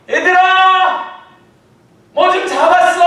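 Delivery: high, slow, full-voiced call; shouting across water. Jesus shouting to disciples on the boat. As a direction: cry it out to the boat. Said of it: "이렇게 소리쳤겠죠".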